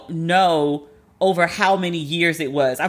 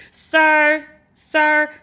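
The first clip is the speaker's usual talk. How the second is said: louder, higher "Sir, sir" of disbelief; raised incredulous "sir"; exasperated call; 7 semitones higher, 4 dB louder than usual. Retold or imitated. Exasperated calling out to him.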